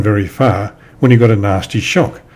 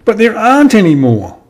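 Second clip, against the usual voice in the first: high, plaintive storybook wail; mock sobbing; 11 semitones higher than usual. A narrator's reading. Squirrel answering Percy's offer of help, acted high sob. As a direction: act tearful, pitched high and falling away. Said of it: "she sobbed".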